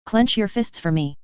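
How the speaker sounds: slow, measured doctor instruction; calm bedside doctor voice; doctor's tone. Retold or imitated. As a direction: instruct like a clinician. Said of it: "We unconsciously mimic a doctor's tone".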